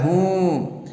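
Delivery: a short aching groan; pained hum. Acted. Ailing husband answers his wife with a pained groan. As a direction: hum as if in pain. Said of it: "दर्द की आवाज़ से कहता है".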